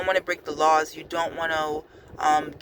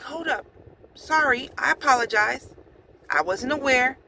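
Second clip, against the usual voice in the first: calm and sincere; 7 semitones higher than usual. Retold or imitated. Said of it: "I'm just being calm and sincere".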